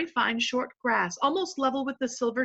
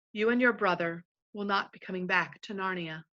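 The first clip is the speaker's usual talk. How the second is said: gently; 2 semitones lower than usual. Acted. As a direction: break the news kindly. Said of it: "said Aslan very gently".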